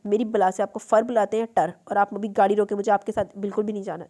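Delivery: a loud, exasperated outburst; angry demand. Acted. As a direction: snap at him to stop. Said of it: "सब्र जब्त की इंतहाओं को छूने लगा".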